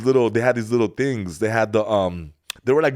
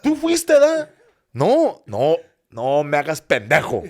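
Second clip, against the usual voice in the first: high, louder parental accusation; hammed-up scolding, pitched way up; mock angry parent; 5 semitones higher, 4 dB louder, slower than usual. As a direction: imitate a parent who isn't buying it. Voices angry parent accusing him.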